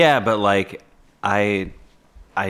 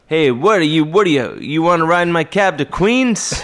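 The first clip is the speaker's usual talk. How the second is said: loud New York cabbie, pitched way up; cab driver character; 9 semitones higher, 6 dB louder than usual. Pretend. Actor practicing roles, showing off his cab driver voice. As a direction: bark it like an outer-borough cab driver hollering. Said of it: "That's my cab driver character".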